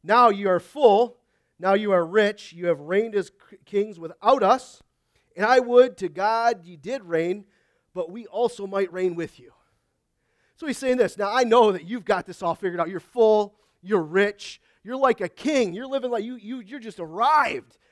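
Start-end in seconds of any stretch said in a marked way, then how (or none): 0.0-9.5 loud, drawn-out mock praise; sarcastic reading. Preacher reading Paul's sarcastic verse to the church, sarcastic. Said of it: "Look at his sarcastic kick in verse eight". 11.2-17.8 loud, emphatic mock congratulation; sarcastic. Preacher paraphrasing Paul mocking those who think they've arrived, sarcastic. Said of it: "He's being sarcastic".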